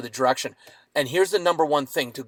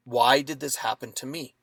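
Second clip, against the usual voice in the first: soft, wondering question with a rise; curious; 2 semitones lower, 3 dB quieter than usual. Shown as a demonstration. Man looking back at the attack, softly curious question. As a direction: ask it with real curiosity. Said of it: "when I looked at it with, in curiosity".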